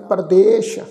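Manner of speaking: ਪਰਦੇਸ਼ ending on a clear sh; teacher's careful ਪਰਦੇਸ਼ with final sh. Shown as a demonstration. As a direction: finish ਪਰਦੇਸ਼ with sh, not s. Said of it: "ਸੱਸੇ ਦੇ ਪੈਰ 'ਚ ਬਿੰਦੀ ਲਾ ਕੇ".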